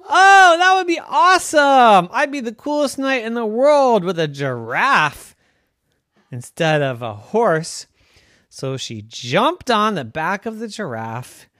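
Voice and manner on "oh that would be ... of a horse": much higher and loud, gushing with joy; delighted girl knight. Acted. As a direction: squeal at the giraffe idea, then settle. Wanda delighted by a giraffe.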